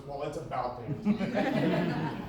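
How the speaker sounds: slow, teasing exasperation; exasperated. Retold or imitated. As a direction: drawl it out with a laugh. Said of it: "my response was".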